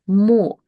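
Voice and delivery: "mo" with a full o; isolated "mo" with a round o; syllable by itself. Shown as a demonstration. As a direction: say "mo" alone, o unreduced. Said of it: "So by itself, we pronounced it as".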